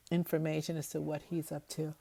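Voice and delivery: words stretched by a yawn. Real, not acted. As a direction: talk through a late-night yawn. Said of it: "Excuse me for yawning".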